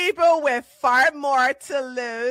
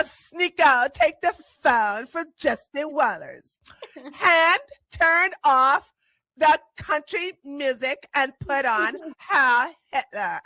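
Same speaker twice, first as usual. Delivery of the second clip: put-on Valley Girl voice. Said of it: "a Valley Girl voice".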